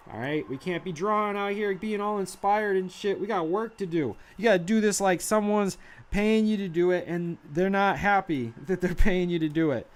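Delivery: hyped pep rant. Acted. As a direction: rant like a frantic boss. Mock boss pep rant.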